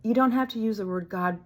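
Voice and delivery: a light playful inner voice; inner voice aside. Retold or imitated. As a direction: voice the second thought brightly. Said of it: "My second thought was".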